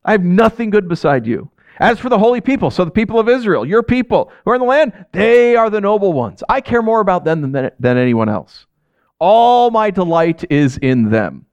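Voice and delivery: acted-out gushing praise; kissing up. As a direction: lay on the devotion, stretching the big words. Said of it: "like, he's kissing up to God".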